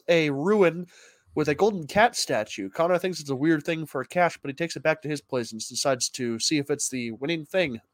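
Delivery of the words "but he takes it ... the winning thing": stuffed up and snotty; snotty nose. Real, not acted. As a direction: talk through a runny nose. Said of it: "how much snot in your face".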